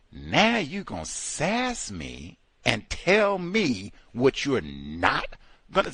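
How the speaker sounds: usual speaking voice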